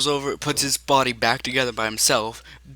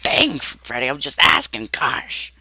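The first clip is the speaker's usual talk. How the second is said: Foxy; 3 dB louder than usual. Acted. Foxy answers Freddy's telling-off, stung and defensive. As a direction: protest quickly in a put-on character voice. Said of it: "Foxy's like".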